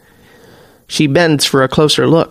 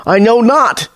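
high-pitched, cowering denial; muffled plea; 7 semitones higher than usual. A narrator's reading. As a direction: plead from under sheltering arms. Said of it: "his voice is muffled".

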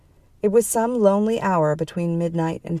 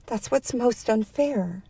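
high, slow, small lament; forlorn thought; 6 semitones higher, 3 dB quieter, slower than usual. A narrator's reading. Tiny woman lost in bed, forlorn thought. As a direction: think it aloud forlornly.

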